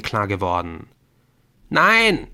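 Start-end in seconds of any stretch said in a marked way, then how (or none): 1.7-2.3 high, loud desperate cry; screaming. A narrator's reading. Injured Colin screams after deserting friends. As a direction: scream after the fleeing ones. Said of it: "schrie Colin".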